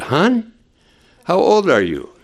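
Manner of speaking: put-on high, gentle voice to a little girl; tender question to child. Pastor asking the girl on his lap, lightly high and gentle. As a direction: ask it lightly, like to a small child.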